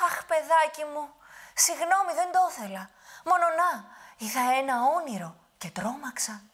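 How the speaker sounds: put-on high, loud old woman's lament; fretting old grandmother. Witch pretends a bad dream to the giant, high old voice. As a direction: sigh it like a worried granny.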